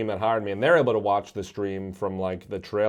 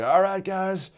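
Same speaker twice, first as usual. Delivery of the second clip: mock hype intro; 8 semitones higher, slower than usual. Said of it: "I'm like".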